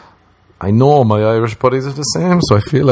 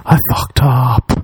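mock despair; 3 semitones higher, slower than usual. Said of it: "That's what I felt like".

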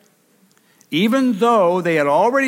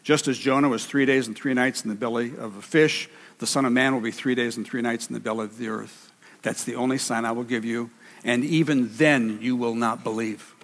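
Jesus voiced; 5 semitones lower, 4 dB quieter, faster than usual. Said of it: "And Jesus said".

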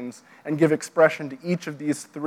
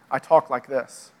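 lower, slower contrasting register; everyday-life voice; 4 semitones lower than usual. Shown as a demonstration. Speaker showing talk about the rest of life, lower and slower. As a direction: drop lower and ease the pace. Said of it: "about the rest of my life".

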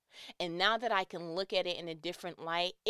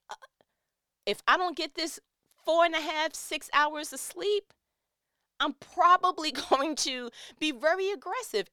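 exhausted mom; 8 semitones higher, 7 dB louder than usual. Retold or imitated. Exhausted mom voiced in story.

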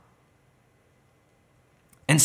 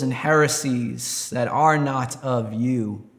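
earnest prayer. Real, not acted. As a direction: pray aloud in measured phrases with long pauses. Leads the closing prayer.

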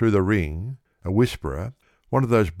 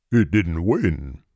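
inquiring tone; slower than usual. A narrator's reading. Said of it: "in inquiring tones".

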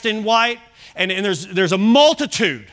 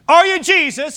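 put-on high, louder take on a British little girl; British accent; 7 semitones higher, 4 dB louder than usual. Retelling the little girl's question to the man, in a British accent. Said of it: "in the British accent".

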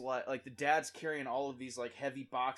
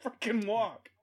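put-on very loud, high exasperated yelling at the kid; angry dad yell; 10 semitones higher, 18 dB louder, much slower than usual. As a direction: shout it like a fed-up frat brother. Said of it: "retelling the dad's yell".

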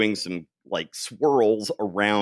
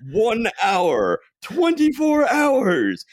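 mock amazement; 13 semitones higher, 6 dB louder, much slower than usual. Real, not acted. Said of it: "It's always precisely on the dot".

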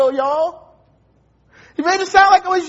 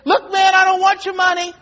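raised voice insisting he wants no money; retold shout. The stranger pleading with the pastor, a mild retold shout. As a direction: call it out firmly, a mild retold yell. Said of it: "And then he says".

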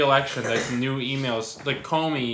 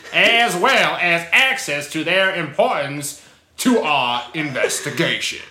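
put-on weird English accent; 4 semitones higher, 7 dB louder than usual. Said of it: "a weirder English accent".

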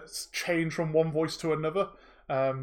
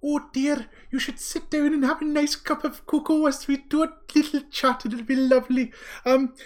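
put-on kindly old lady. Magic mouth switching voices to fuss over the players, grandmotherly. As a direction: coo over them like a doting granny. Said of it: "I will try my best to voice act".

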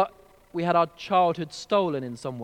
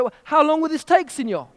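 put-on Mexican accent; 9 semitones higher, 5 dB louder than usual. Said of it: "Mexican accent".

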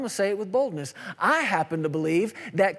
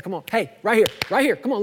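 louder, insistent call to look here; calling for attention; 2 semitones higher, 3 dB louder, faster than usual. Acted. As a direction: grab a distracted listener's attention. Acting God calling for attention.

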